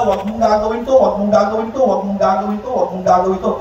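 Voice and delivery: mock parent repeating a warning over and over; nagging parent. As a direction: nag like a worried parent, each line rising at the end. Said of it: "pag nagsasalita sila".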